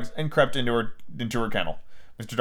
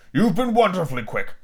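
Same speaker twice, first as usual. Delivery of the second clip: mildly mock-polite retort, pitched up; vindictive politeness; 4 semitones higher than usual. A narrator's reading. Father to helpful daughter, vindictive politeness. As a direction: thank her with pointed courtesy. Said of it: "retorted with a vindictive politeness".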